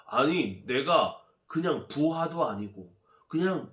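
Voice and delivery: loud, indignant storybook tirade; angry general. Acted. Slighted general fuming at the prophet's door, angry. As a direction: complain with wounded pride, pitch rising as you go. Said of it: "몹시 화가 났어요".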